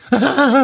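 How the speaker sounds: high theatrical fake laugh; over-the-top insincere cackle; hammy stage laugh. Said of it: "Und das war ihr theatralisches Lachen". (theatralisches, gekünsteltes Lachen)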